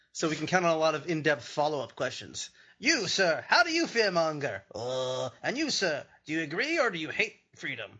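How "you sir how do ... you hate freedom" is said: mock debate moderator. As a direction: fire questions like a parody moderator. Mimics debate moderator questioning candidates.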